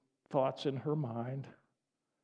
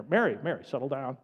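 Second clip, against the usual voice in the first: firm, mildly stern calming; a little stern. Acted. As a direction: settle someone down with a firm word. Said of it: "could have gotten a little stern here".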